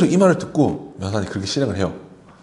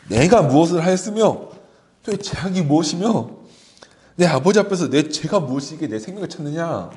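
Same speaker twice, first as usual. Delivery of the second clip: raised, formal reading of a plea; scripture reading; 4 semitones higher than usual. Real, not acted. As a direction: read the verse out as David's protest. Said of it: "성경을 그대로 읽어드릴게요". (성경을 낭독하듯)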